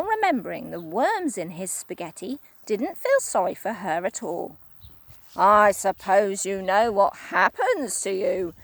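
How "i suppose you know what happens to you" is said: lower, louder sly menace; a hint of a sinister old man; Mister Twit, sly. Husband teasing out the horror, sly. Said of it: "he said".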